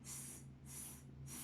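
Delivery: S as a long unvoiced hiss; tongue behind teeth, just hiss S; hissed S sound. Shown as a demonstration. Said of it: "S is for star".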